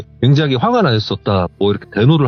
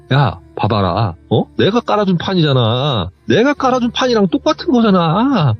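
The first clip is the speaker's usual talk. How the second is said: indignant, climbing higher to the end; retold angry protest; 6 semitones higher than usual. Aunt insisting she set it all up, mock protest rising in pitch. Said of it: "하면서 막 소리를 지르는데".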